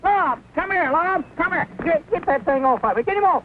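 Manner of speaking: panicked plea. Acted. Begging friend to remove bug.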